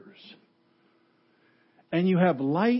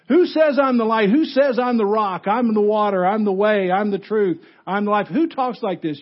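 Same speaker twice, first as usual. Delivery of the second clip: high, loud run of mocking quotes; indignant incredulity; 5 semitones higher, 5 dB louder than usual. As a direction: pile up the claims like a scandalized objector. Acts crowd listing outrageous claims.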